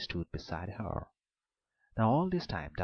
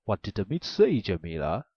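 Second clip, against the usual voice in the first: a drowsy ogre, louder than the narration; the ogre asks, half asleep; a sleepy ogre's loud question; 8 dB louder than usual. A narrator's reading. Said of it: "the ogre moved sleepily and asked".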